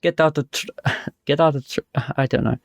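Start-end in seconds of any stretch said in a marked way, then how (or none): 0.0-0.6 hesitant stab at Russian; attempted Russian accent. Shown as a demonstration. Showing friends on request, attempted Russian accent. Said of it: "let's hear your Russian accent". 1.2-1.8 hesitant stab at Russian; attempted Russian accent. Shown as a demonstration. Showing friends on request, attempted Russian accent. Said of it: "let's hear your Russian accent".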